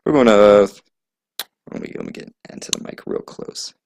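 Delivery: booming close-mic announcer voice; right up on the mic. Pretend. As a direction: lean into the mic and boom it out. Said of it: "I'm so sorry for your ears".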